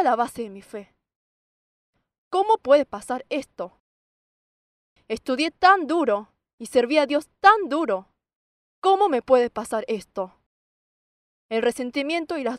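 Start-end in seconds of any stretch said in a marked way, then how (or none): 2.3-3.8 slow, loud, indignant question; resentful protest, acted. Acted protest at failed exam. 5.1-10.3 loud, indignant complaint with heavy stresses; resentful protest, acted. Acted resentment toward God.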